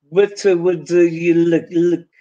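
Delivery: slow "What would you look" with vowels bent; consonants only. Shown as a demonstration. Teacher repeating the consonant-only phrase. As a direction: drag out "look" in place of "like". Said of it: "it still reminds the phrase".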